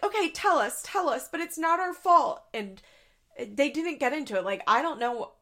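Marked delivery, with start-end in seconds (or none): 0.0-2.4 mock defensive. Mocking parents' defensive reply.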